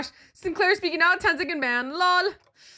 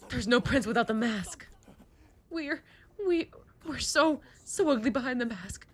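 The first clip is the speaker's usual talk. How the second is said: whiny prince; 3 semitones higher than usual. Acted. Prince to the group, whining about the mask. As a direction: plead about the stuck mask.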